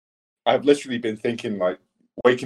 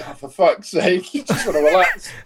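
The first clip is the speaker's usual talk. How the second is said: mock annoyance; 8 semitones higher than usual. Annoyed player voiced, laughing.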